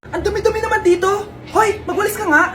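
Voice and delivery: scolding mother. Acted.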